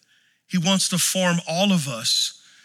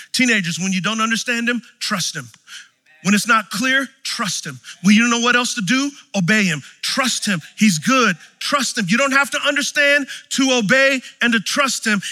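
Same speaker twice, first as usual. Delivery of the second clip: preaching exhortation. Acted. Preacher urging teenagers to trust God, building exhortation. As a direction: drive home trust him to the teens.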